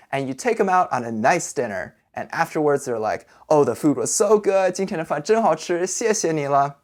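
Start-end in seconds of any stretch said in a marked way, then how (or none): 3.5-6.8 higher, mildly gushing praise; grateful guest. Acted. Childhood friend thanking the host after a nice dinner, mildly gushing. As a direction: play a friend pleased with dinner.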